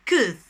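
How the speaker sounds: "Could." repeated short as ku, with no L; a second short "Could." with a silent L; correct pronunciation. Shown as a demonstration. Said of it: "Repeat after me".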